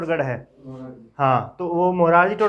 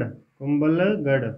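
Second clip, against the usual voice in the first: कुंभलगढ़ stretched out slowly, lower; slow dictation; 4 semitones lower, much slower than usual. Shown as a demonstration. Teacher dictating to students who are writing, कुंभलगढ़ said very slowly. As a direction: draw out कुंभलगढ़ part by part for note-takers.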